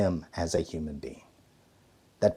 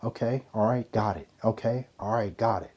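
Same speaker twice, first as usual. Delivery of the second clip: calm listening. Shown as a demonstration. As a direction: soothe the one yelling at you. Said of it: "be like".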